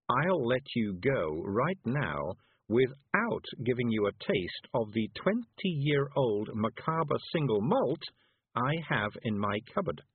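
slow, drawn-out relish; teasing witch threat. Acted. Miss Level tormenting a Feegle about whisky, deliberate. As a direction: dangle the threat word by word.

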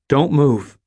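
high, loud command; stern order. Acted. Robber orders the cashier not to move. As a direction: freeze him with the order.

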